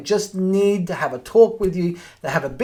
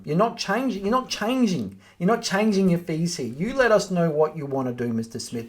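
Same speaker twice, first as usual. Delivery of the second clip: softer and steady, repeating "not" firmly; firm, unbending; 4 dB quieter than usual. Shown as a demonstration. Agent refusing to change fees for a difficult owner, firm and soft. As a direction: hold your ground on the fees. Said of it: "And just tell them".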